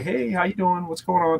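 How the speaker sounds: talking to son. Retold or imitated. Dad shows how he talks to his son, softly friendly. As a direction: imitate a gentle everyday chat with your kid. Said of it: "when I'm talking to my son".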